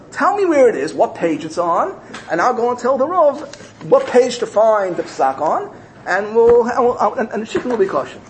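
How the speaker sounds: put-on high, emphatic girlish plan; eager insistence. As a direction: press him keenly, stretching key words. Eager girl insists, retold.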